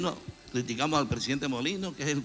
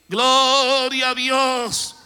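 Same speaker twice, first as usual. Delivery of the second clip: slow, even louder high cry of praise; louder crowd shout; 9 semitones higher, 10 dB louder, much slower than usual. Retold or imitated. The crowd at the seventh lap, slow loud cry. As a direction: lift it higher, the whole nation shouting. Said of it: "Quiero pensar".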